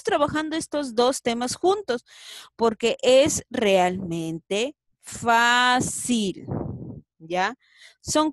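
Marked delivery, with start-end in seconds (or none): 2.5-6.5 Fácil said loud and slow; stress on Fácil. Shown as a demonstration. Teacher reassures pupils, stressing Fácil. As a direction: lean on the word Fácil. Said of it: "stresses how easy it is".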